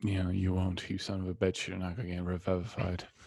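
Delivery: low, grumbled mutter under the breath. A half-orc, after clapping someone on the shoulder, mutters under his breath. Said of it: "under my".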